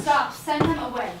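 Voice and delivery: loud pleading stop; distressed outburst. Acted. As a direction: cry out to end it. Cries out to stop demonstration.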